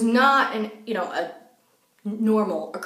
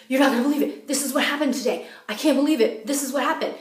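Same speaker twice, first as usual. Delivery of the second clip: excited reporting; 4 semitones higher, faster than usual. Retold or imitated. Retold excited calls to her friend.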